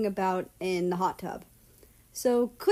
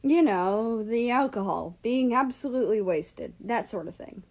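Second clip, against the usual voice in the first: hint of a British drawl; British accent. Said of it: "his old British drawl peeking out".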